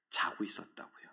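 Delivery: hushed whisper of a disappointing fact. Acted. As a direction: drop to a breathy whisper. Disciples asleep, hushed aside.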